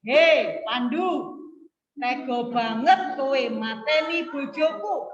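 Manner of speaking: loud HEI, then mild model anger; angry demo. Shown as a demonstration. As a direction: read out an angry accusation for pupils. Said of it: "Ini kan orang marah ini".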